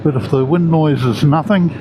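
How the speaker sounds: muffled under a balaclava; talking inside a motorcycle helmet. Real, not acted. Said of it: "the microphone will pick up underneath my balaclava".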